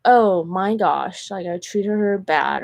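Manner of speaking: slow, drawn-out dawning realization; imitated remorse, stretched out; mock regret. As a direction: act out someone slowly realizing their fault. Voicing people who regret ghosting her.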